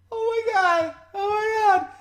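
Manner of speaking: high, loud screaming "Oh my God"; mock scream. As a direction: shriek it like the panicked daughter. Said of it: "She's sitting there screaming".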